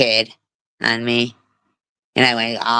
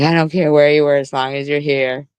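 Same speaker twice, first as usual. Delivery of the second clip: a touch of mock scolding, higher and relieved; half-scold, half-overjoyed, pitched up; relieved parent; 4 semitones higher, 4 dB louder than usual. Relieved parent greeting a child who went missing, lifted and glad. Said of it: "so mad... so happy".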